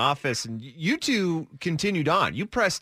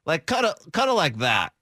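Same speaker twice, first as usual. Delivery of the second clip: nerdy cat voice. Pretend. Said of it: "my voice for Boris is a little bit more like".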